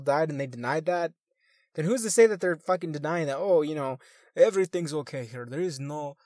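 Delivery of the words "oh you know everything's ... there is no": lightly put-on Russian accent, louder at first; horrible Russian accent. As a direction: do a rough, amateur Russian accent. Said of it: "doing a horrible Russian accent".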